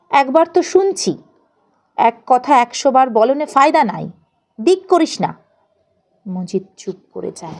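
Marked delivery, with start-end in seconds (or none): 0.1-5.3 loud, higher, exasperated snap; irritated scolding. Acted. Father snaps at his son nagging about hunger, loud and irritated. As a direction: cut the boy off sharply, fed up.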